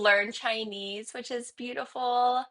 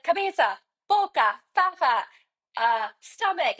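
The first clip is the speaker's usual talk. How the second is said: excited quizzing; 6 semitones higher, 5 dB louder than usual. Retold or imitated. Naming body parts with child.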